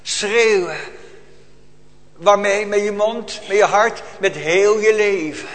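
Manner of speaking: a preacher's swelling outcry; rising to a cry. Real, not acted. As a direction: call it out with growing force. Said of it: "Roepen, zei ik".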